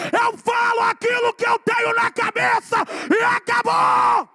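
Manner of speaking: high, loud, very slow defiant declaration; shouted preaching. Acted. Preacher defying his critics, shouting at full force. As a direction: hurl it at the critics.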